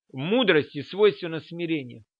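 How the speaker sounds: ordinary delivery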